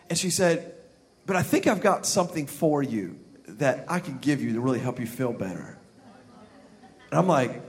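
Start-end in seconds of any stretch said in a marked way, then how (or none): 1.2-5.8 low, hushed dentist voice; secretive offer. Acted. Dentist offering patient something to feel better, low and secretive. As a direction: drop it low and soft, like a shady offer.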